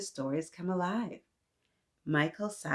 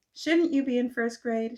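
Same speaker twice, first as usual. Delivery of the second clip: surprised teacher; 7 semitones higher, 4 dB louder than usual. Acted. Teacher asks Michael.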